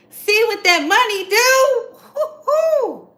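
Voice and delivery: high squealing laugh with the words; cackling laugh. Real, not acted. Cackling glee at money.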